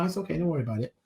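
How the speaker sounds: imitating a kind, soft brush-off of an apology; sweetly reassuring. Man soothing the podcaster who knocked his tea, sweetly reassuring. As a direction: retell his gentle reassurance, softly. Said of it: "He's really sweet about it".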